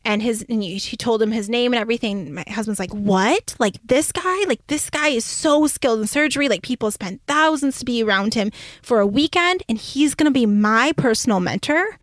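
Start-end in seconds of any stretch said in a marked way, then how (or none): 2.9-12.0 amazed disbelief. Retold or imitated. Husband's amazed reaction retold.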